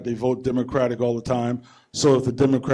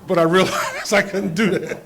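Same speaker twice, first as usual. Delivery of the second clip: chuckling through the words; a laugh breaks into the line; 4 semitones higher, 5 dB louder than usual. Real, not acted. Dad laughing off wanting to use his belt.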